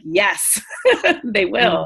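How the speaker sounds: laughing through a confident yes; a laugh breaking in before they will; amused and sure of it. Retold or imitated. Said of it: "being like".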